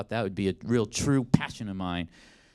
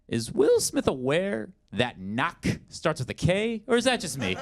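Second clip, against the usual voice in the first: incredulous; 7 semitones higher, slower than usual. Acted. Incredulous at movie line.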